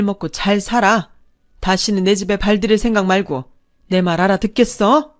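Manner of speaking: indignant parent laying down the law; angry scolding mother. Acted. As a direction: tell off a grown son who has let you down. Mother scolds son after slap.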